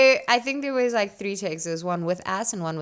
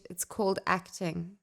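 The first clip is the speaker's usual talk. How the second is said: 1 dry retort; 5 dB quieter than usual. Pretend. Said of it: "I wish you turned to them and go".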